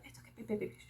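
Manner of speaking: put-on calm a scared child very quietly; gentle mother shushing her little one; soothing mother. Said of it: "she was like".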